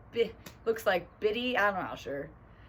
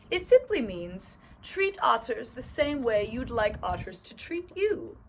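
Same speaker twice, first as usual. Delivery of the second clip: lightly put-on explaining owl, indefinite accent; owl with vague accent; 3 semitones higher than usual. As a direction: explain patiently as a storybook owl. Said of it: "what kind of accent thing I'm doing".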